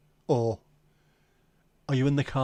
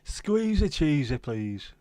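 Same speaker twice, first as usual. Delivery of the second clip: very high "Squeeze it", then slow; mock advert; 3 semitones higher, much slower than usual. Quoting an advert catchphrase in a high mock voice. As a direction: camp up the advert line.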